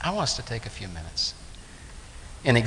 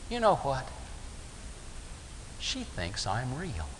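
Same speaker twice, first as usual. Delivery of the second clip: awed appreciation; 3 semitones higher, 7 dB quieter than usual. Retold or imitated. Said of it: "awed appreciation".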